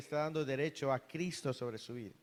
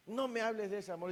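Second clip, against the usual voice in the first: retold demon's outcry; 5 semitones higher, faster than usual. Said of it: "el demonio se volvió a gritar".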